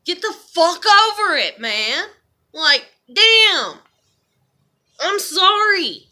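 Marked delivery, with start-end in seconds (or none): 0.1-3.8 louder, fed up with herself; self-scolding. Real, not acted. Scolding herself for still liking him, fed-up louder snap. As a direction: snap at yourself to get over it.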